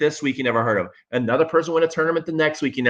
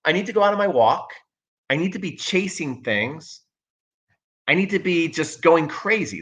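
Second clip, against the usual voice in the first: a higher, faster, eager dog voice, lightly done; the restless dog begging to go out; voicing the dog; 4 semitones higher than usual. Owner voicing his impatient dog Pete, higher and eager. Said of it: "He's like".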